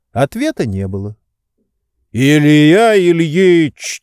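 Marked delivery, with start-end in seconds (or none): 2.1-4.0 loud, higher, long-drawn name call; insistent repeated call. A narrator's reading. Servant keeps tugging at sleeping master, loud insistent call. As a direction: call out louder, stretching the name. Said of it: "твердил Захар".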